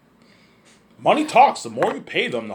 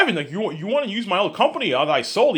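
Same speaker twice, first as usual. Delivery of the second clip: imitating Peter; 10 semitones higher, 3 dB louder than usual. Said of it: "People are like".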